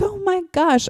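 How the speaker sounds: mock-panicked high exclamation; freaked-out passenger gasping out words, hammed up; panicked parent. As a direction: imitate an alarmed parent, pitch shooting up. Panicking parent reacting to new driver.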